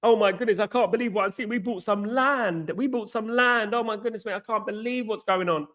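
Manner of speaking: high, breathless mock amazement, lightly voiced; mocking gushing fans. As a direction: parody over-excited fans gasping at trivia. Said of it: "they celebrate this".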